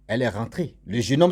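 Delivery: ordinary talk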